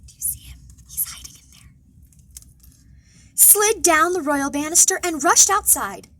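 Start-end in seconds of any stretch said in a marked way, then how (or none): 0.1-1.7 unvoiced conspiratorial whisper. Guards spotting the hiding prince, whispered. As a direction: hiss it low so he won't hear.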